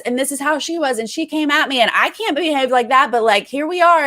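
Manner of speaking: high, exasperated retelling; exasperated Davon and Bailey. Retold or imitated. Podcaster imitating them, high and exasperated. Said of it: "saying, like".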